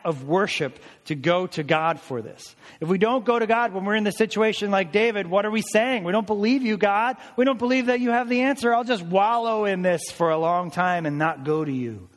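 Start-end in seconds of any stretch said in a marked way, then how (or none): 2.8-12.1 voicing unbelief toward God in rising fervor; passionate preaching. Real, not acted. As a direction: build to an indignant challenge.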